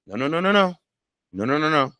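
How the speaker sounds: high mock scolding no's; playful no.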